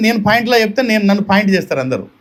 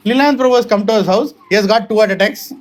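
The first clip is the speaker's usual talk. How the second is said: mock introduction; much slower than usual. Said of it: "నా introduction రాస్తున్నాను".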